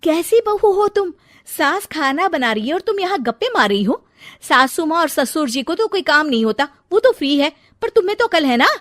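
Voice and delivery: scolding the bride for gossiping. Acted. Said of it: "बुरा भला कहने लगती है".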